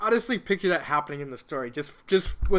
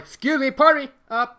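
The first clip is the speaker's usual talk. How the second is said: higher, prim apologetic voice ending in a yelp; flustered Peach; 7 semitones higher, 4 dB louder than usual. Acted. Princess Peach pushes through the crowd, flustered and polite. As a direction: squeeze through politely, then get kicked. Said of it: "She's like".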